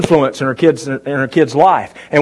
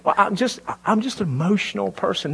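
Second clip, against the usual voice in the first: higher, softer put-on weepy voice; mock teary whine; 4 semitones higher, 8 dB quieter than usual. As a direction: whimper it like staged tears, high and soft. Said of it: "turn it on and off like a water faucet".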